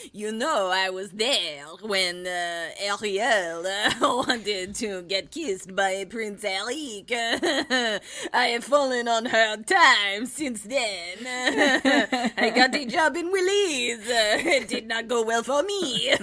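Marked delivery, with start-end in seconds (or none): 0.1-11.2 slow, wistful storyteller voice; a hint of a washed-up old alligator; mock sad alligator. Voicing the alligator's sad backstory.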